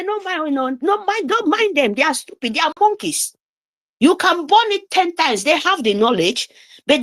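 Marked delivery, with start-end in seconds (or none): 0.0-3.3 high, scornful imitation of them brushing it off; mock dismissive quote. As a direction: sneer it out lightly as their careless voice. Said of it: "They will say".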